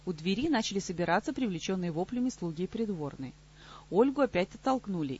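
ordinary delivery, nothing marked

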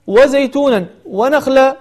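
وزيتونا ونخلا spoken slowly with clear n and a break; tanween separated. Shown as a demonstration. Teacher marking the third place, words said slowly and separately. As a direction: separate وزيتونا from ونخلا, sounding the first word's n. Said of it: "الموضوع الثالث".

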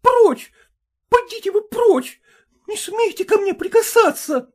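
high, loud cry of Прочь; voiced wife screaming at husband; shouting wife. A narrator's reading. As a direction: push him away with your voice. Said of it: "закричала та".

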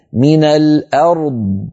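من الأرض slow, the r kept distinct before the heavy d; slow من الأرض with an audible r; clear r in الأرض. Shown as a demonstration. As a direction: let the r of الأرض sound before the emphatic d. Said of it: "أر فيها جريان ضئيل للصوت".

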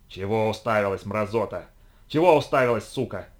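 raspy enraged snarl, loud; hoarse furious growl. Acted. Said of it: "хрипло рычал взбешённый сумеречник".

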